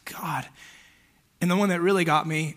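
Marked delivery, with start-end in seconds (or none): 0.1-0.5 a whispered, stunned God. Retold or imitated. Hearing of the fatal crash, a whispered prayer. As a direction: breathe the word in shock. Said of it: "I'm just like".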